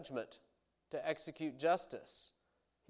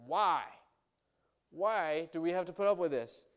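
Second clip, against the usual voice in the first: raised, insistent demand; bold challenge to God; 4 semitones higher, 4 dB louder than usual. Acted. Prophet asks God why, bold raised protest. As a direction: cry it out, higher and louder. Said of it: "he stands up to God like this".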